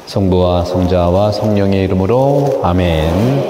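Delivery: slow, measured liturgical reading; solemn scripture reading. Real, not acted. Priest reading the Gospel to the congregation, slow and solemn. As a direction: read the Gospel out slowly and evenly.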